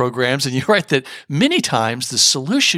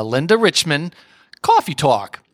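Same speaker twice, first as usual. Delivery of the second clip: lightly put-on New York accent; Linda Richman. TV host names her show, in a mock New York accent. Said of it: "very thick, uh, New York accent".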